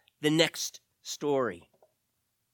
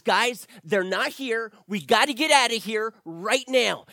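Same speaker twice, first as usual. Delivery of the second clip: urgent warning; 3 semitones higher, 4 dB louder than usual. Acted. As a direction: urge them out before it's too late. Ground shakes, Lenz urges escape.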